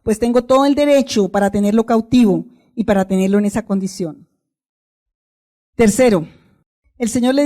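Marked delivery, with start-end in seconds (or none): 0.0-4.3 mocking Satan. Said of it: "se ufanaba y se burlaba".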